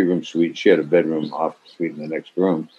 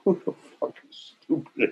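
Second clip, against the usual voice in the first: retold yell; 7 semitones higher, 7 dB quieter than usual. Director yells at laughing crew.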